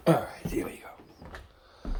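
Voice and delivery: slow, breathy hushed whisper; real whisper. Real, not acted. Setting off on the garden walk, a slow whisper. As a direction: drop to a whisper to begin.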